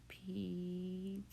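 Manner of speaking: "Pizza" split slowly as peets, za; sounded out. Shown as a demonstration. Teacher showing a different sound, sounded-out "Pizza" as peets-za. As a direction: stretch "Pizza" syllable by syllable. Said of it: "this is kind of a different sound".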